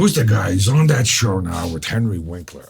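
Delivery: loud, wound-up actor impersonation; mock-agitated demand, punched out loudly. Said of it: "all of a sudden he gets wound up".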